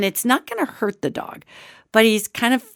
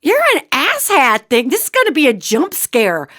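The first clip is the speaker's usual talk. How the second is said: raised-pitch mock exasperation; exasperated retort; 5 semitones higher, 3 dB louder than usual. Dog owner to the sneaky creature, mock exasperated. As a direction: call it out, higher and emphatic. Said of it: "And I'm like".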